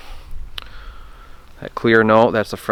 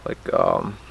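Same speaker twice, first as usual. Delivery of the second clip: mouth cluck sound; 4 dB quieter than usual. Shown as a demonstration. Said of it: "it'll sound kinda like".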